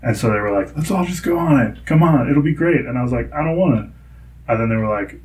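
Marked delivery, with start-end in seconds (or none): 0.8-2.8 higher-pitched, pleading encouragement; coaxing. Retold or imitated. Imitating parents urging child onto ride, coaxing. 3.3-3.9 put-on reluctant child. Child refusing parents' coaxing.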